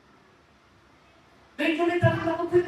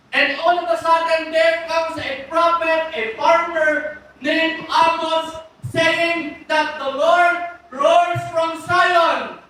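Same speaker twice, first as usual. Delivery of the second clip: building sermon; slower than usual. Acted. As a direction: preach it slow, letting the prophecy land. Preaching builds to Amos's prophecy. (mabagal at malakas na pangangaral)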